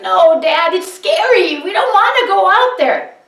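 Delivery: put-on high, loud whine of frightened boys; scared sons. A narrator's reading. Boys plead with their father, high scared whine. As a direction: beg not to go. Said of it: "the boys were like".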